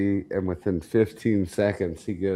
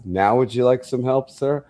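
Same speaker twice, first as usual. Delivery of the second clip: higher, sweetly sarcastic offer; a hint of a smug orderly; mock polite orderly; 5 semitones higher, 3 dB louder than usual. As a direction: tease him with fake courtesy. Orderly teasing after fall.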